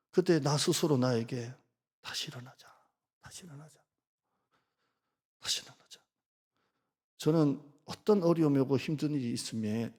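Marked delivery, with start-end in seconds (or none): 2.0-6.0 점점 작아지며 속삭이듯 되뇌기; 혼잣말로 낮게 다짐하며 사라지듯; 조용한 다짐. Retold or imitated. Self-talk mantra, fading. (스스로에게 조용히 되뇌는 다짐)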